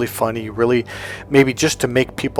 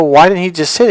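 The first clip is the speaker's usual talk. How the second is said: put-on higher, louder childish complaint; confused kid; 6 semitones higher, 6 dB louder, faster than usual. Young Michael complaining to his brother, higher and louder. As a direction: whine at the unfairness of it. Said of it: "I go".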